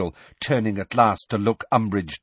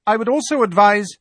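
lightly voiced strict teacher, higher; a hint of a brisk, stern professor; 13 semitones higher, 6 dB louder than usual. A narrator's reading. McGonagall voiced, cut off.

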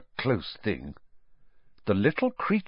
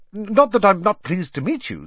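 higher, louder, hurried reassurance; quickly; 10 semitones higher, 5 dB louder than usual. A narrator's reading. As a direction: blurt it politely. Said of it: "said Harry quickly".

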